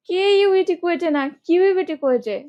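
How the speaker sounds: কিউইটি hit high and loud, slow; emphatic spelling joke. Shown as a demonstration. Teacher stressing a spelling trick for students. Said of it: "spelling joke mnemonic".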